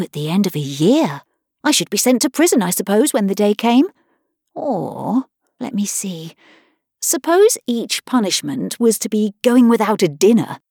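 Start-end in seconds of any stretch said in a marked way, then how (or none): 4.5-6.3 thinking aloud under her breath; whispered musing. Acted. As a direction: whisper it to yourself. Alice musing to herself.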